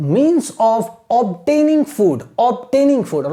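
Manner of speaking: slow, deliberate read-aloud in short phrases; careful teacher's reading; model reading with pauses. Shown as a demonstration. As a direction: read slowly for pupils to imitate, breaking between phrases. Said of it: "आपको imitate करना है".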